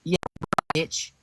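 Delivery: angry shout. Real, not acted. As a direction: yell the threat at him. Threatening to call police.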